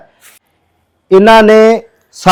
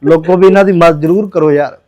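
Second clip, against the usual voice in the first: tearful plea. Real, not acted. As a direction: voice breaking while begging for help. Pleading for help, voice breaking.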